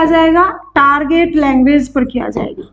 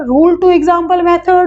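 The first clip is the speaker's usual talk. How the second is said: slow dictation; 2 semitones higher, much slower than usual. Shown as a demonstration. Teacher dictating method name.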